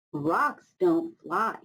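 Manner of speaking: slow, doubtful; scoffing Hummingbird. Acted. A hint of Hummingbird doubting that rocks fly. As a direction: say it flatly doubtful. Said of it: "said Hummingbird".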